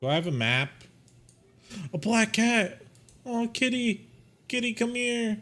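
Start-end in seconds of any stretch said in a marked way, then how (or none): 1.9-5.4 high, delighted kitty call; excited cat lover. Real, not acted. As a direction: coo at the kitty eagerly.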